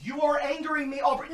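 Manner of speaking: soft laugh while scolding; laughing through annoyance. Real, not acted. Telling Aubrey off while laughing, amused annoyance. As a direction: chuckle it out, half annoyed.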